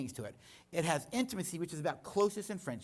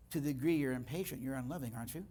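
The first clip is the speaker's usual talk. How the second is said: gentle voice of Father; 3 semitones lower, faster than usual. Retold or imitated. Father gently correcting an impatient son, a touch of calm. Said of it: "And then Father says".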